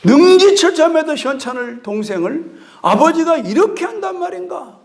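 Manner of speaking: lightly acted outrage; indignant older brother. Older brother hearing of the feast, mildly hammed-up indignation. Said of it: "막 피가 쏟는 거예요".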